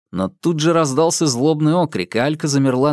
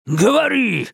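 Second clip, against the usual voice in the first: sudden bark; 10 semitones higher than usual. A narrator's reading. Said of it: "вдруг рявкнул он".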